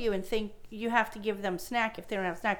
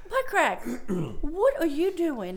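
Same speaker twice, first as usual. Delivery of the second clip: calling out; 5 semitones higher, slower than usual. Retold or imitated. Teacher calls out the kid.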